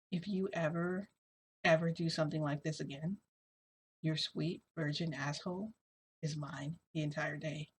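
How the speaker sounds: soft, hushed threat, not truly whispered; retold whisper. Toshinori bends down to threaten her in her ear, hushed. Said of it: "he whispers in my ear".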